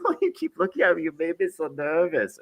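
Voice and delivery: high-pitched put-on Cuban woman's accent; mock Cuban accent, high and nervous. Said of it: "She was Cuban".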